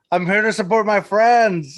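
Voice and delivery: mock-proud declaration; proud, all cool. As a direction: act proud and cool about being supportive. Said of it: "proud, like, all cool".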